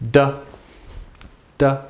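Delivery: "Da" said short and unstressed; short, toneless "Da"; neutral tone. Shown as a demonstration. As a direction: keep "Da" brief and light, no tone. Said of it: "Neutral tone".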